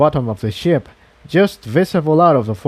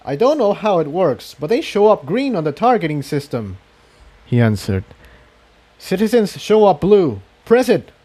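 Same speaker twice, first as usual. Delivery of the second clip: Jigsaw urging; 5 semitones higher than usual. Acted. Jigsaw urges Incendia on.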